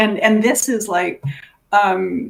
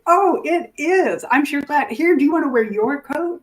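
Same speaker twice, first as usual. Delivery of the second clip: put-on higher, bright coaxing voice to an elderly client; sweet coaxing; 6 semitones higher than usual. Caregiver coaxing a woman with dementia into her coat, sweetly. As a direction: coax her gently into her coat.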